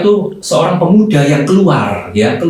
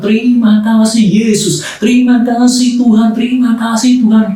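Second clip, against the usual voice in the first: higher, elated thanks; joyful shout of thanks; 8 semitones higher than usual. Retold or imitated. Young man thanking God, joyful raised cry. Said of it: "berteriak dengan sukacitanya sejadi-jadinya".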